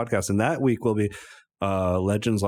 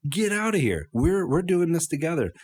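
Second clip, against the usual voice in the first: much higher, possessive dog shooing off a rival; jealous dog voice; 8 semitones higher than usual. Acted. Dog telling the monkey to leave, high and possessive. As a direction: snap it high like a territorial pup.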